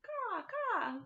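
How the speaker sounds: very high, loud cawing crow; high loud crow call for the kids. Acted. Crow sound in garden rhyme.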